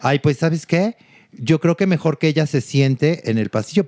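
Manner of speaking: imitating a miffed diva; retold annoyance. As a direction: snub them with mock irritation. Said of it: "se voltea muy enojada".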